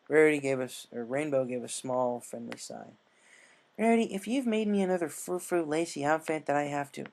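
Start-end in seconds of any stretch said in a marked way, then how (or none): 3.8-7.1 protesting. Acted. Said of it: "Rainbow began to protest".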